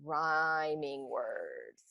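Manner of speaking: very slow whisper; slow whispered dictation; whispered while writing. Shown as a demonstration. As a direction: breathe the words as you write. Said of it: "So I'm gonna write that".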